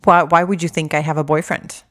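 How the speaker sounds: mock offended outburst. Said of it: "some people can get so pissed off".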